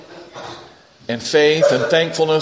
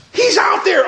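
excited shout. Acted. Rhoda telling the church Peter is outside, high excited shout. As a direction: blurt it out breathless with joy.

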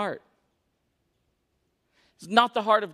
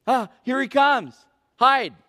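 higher, louder panicky cry on "Hide"; alarmed hiding; 4 semitones higher, 4 dB louder, slower than usual. Acted. The first couple spot God coming, mock panic. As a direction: act a startled scramble to hide. Adam and Eve hiding, acted.

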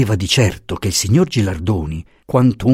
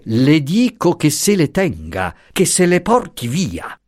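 a touch higher, indignant noblewoman scolding; lightly voiced haughty marchesa; 7 semitones higher, slower than usual. A narrator's reading. Marchesa scolds the professor for naming Franco, lightly indignant. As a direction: let her bristle at the intrusion.

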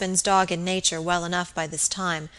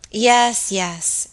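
impatient; 2 semitones higher, 4 dB louder than usual. A narrator's reading. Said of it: "answered Lady Audley impatiently".

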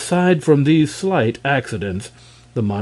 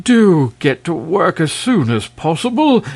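raised, impatient king's order; irritable; 6 semitones higher, 4 dB louder than usual. A narrator's reading. King pressing the dragon to start work, irritable. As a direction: urge it on, testily. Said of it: "exclaimed the king irritably".

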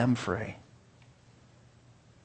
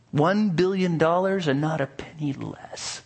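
higher, firm, greedy blacksmith voice; greedy blacksmith demand; 4 semitones higher than usual. Acted. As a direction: state the price, gloating. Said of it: "A greedy smile crept upon his face".

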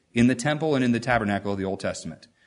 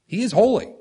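exclaiming; 10 semitones higher than usual. Real, not acted. Preacher exclaims climax.

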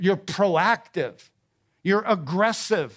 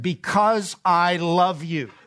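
slow, deliberate declaration of love; loving emphasis; slower than usual. Shown as a demonstration. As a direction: let each word land slowly and sincerely. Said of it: "here's the way I'd like you to hear that".

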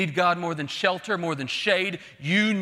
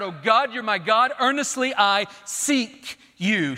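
mildly raised, earnest cry; 3 semitones higher, 3 dB louder than usual. Retold or imitated. Preacher voices David in his darkest moment, crying out. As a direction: call out to God, drawing out the last words. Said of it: "he cries out".

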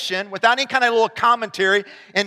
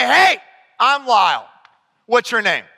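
awkward adult greeting; 4 dB louder than usual. Pretend. Adult youth worker greeting a teen, hammed-up awkward. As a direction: play the clumsy grown-up saying hi. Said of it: "in all your awkwardness and all the weirdness and say".

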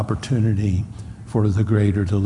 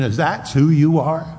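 scornful higher taunting questions; mocking disbelief; 3 semitones higher than usual. The Sanhedrin scoffing at the beaten Messiah. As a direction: sneer at him in disbelief. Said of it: "They're saying".

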